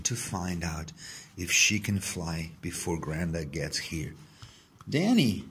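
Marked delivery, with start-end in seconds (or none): 4.9-5.5 louder, higher call across a garden; shouted name. A narrator's reading. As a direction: call his name from a distance. Grandad calls from the garden.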